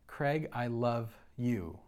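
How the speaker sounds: slow, soft "Craig, I love you."; a hushed, tender echo of God's voice; slow tender quote. Retold or imitated. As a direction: linger on each word of "Craig, I love you.". Repeating God's words slowly.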